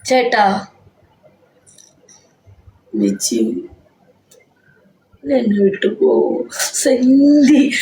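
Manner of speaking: put-on slow, dragged-out drunken plea; tipsy sister pleading. Tipsy sister begging her husband not to leave, slow drunken plea. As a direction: imitate the tipsy older sister, stretching every word.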